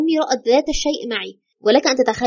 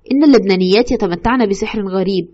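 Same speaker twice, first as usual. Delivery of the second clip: mysterious; 4 semitones lower than usual. Retold or imitated. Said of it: "قال في غموض".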